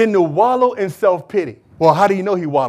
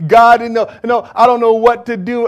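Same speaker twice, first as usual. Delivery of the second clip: mock self-pity; 4 semitones higher than usual. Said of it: "call up my friends and just say".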